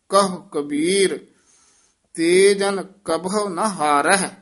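ਕਹੋ said quick and light, ਕਬਹੂ said clearly; careful pronunciation. Shown as a demonstration. Teacher modelling the line for the student. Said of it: "ਧਿਆਨ ਨਾਲ ਉਚਾਰਨ ਕਰਨਾ".

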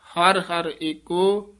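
short stop after ਏਕੋ; brief halt. Shown as a demonstration. Teacher demonstrating the halt. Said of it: "ਇੱਥੇ ਠਮਕ ਲਾ ਦੇਣੀ ਹੈ".

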